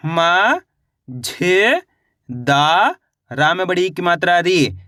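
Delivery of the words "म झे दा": "म", "झे", "दा" one by one, each rising; अलग-अलग अक्षर. Shown as a demonstration. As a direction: sound out "म", "झे", "दा" with long gaps. Teacher sounds out letters separately. ("म", "झे", "दा" रुक-रुककर, चढ़ते सुर में)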